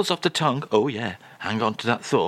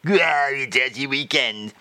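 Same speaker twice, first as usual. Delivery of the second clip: savouring French echo; mock-French accent. French guest echoes host's phrase, mock-French accent. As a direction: relish it in a put-on French accent.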